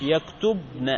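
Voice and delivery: يكتبن as yaktub-na, one short n; light open nun. Shown as a demonstration. Teacher showing the undoubled nun, يكتبن as yaktubna. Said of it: "هنا مفتوحة صح ومخففة".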